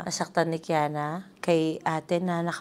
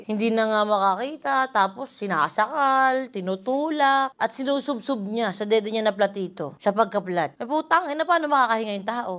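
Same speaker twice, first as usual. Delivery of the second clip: outraged; 4 semitones higher, 3 dB louder than usual. Real, not acted. Outraged retelling of the fight.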